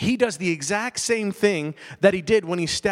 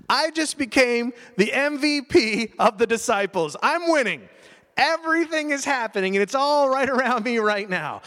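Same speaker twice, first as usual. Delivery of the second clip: Peter voiced higher, thrilled and boastful; giddy Peter; 4 semitones higher than usual. Peter boasting to the other disciples, giddy. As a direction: brag like you can't believe your luck.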